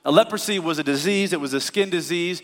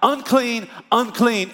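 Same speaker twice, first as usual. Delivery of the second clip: calling unclean; 6 semitones higher, slower than usual. Retold or imitated. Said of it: "they've been saying their whole life".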